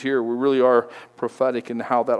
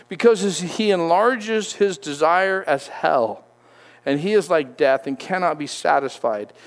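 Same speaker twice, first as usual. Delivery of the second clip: scripture reading; 3 semitones higher than usual. Acted. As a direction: read the verse out with weight. Reads scripture aloud.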